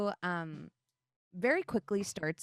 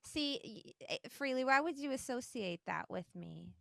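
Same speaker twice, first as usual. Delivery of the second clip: softer, halting goddess voice; lightly voiced goddess, hesitant and soft; Ahavara; 2 semitones higher, 7 dB quieter than usual. Turtle goddess disowning the fireworks, soft halting voice. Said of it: "this is when you hear Ahavara say".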